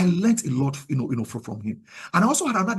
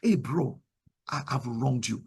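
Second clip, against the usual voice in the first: lower, softer humble confession; sincere apology; 4 semitones lower, 5 dB quieter, slower than usual. Shown as a demonstration. Modelling an apology to a fellow disciple, sincerely. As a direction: own up quietly to a brother. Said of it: "when we apologize to one another".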